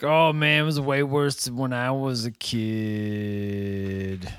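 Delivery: low, quiet, drawling character imitation; Michael. Quoting Michael, voice drops low.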